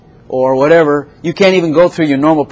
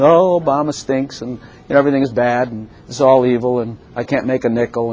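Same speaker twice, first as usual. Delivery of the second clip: mock griping; 4 semitones lower, 4 dB quieter than usual. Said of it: "griping and complaining".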